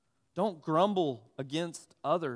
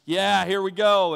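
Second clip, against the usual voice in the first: louder, bright burst of eagerness; eager kid; 3 semitones higher, 9 dB louder than usual. Retold or imitated. Boy thinking he's getting ice cream, eagerly cheering.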